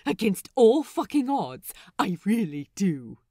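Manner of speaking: reluctant admission. A narrator's reading. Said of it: "surprised to hear himself admit".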